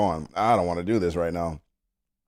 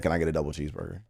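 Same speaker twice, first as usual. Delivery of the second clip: panicked order; 6 dB quieter, much faster than usual. Retold or imitated. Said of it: "Because I panicked".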